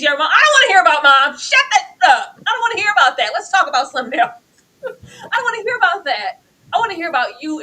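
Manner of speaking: loud, high, tearful refusal; a daughter refusing to hear about her mom; upset daughter. Retold or imitated. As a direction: shout it down through tears. Voicing daughter refusing talk of Mom.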